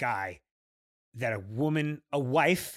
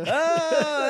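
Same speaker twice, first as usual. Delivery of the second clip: surprised oh; 12 semitones higher, 6 dB louder than usual. Real, not acted. Reacting to old post.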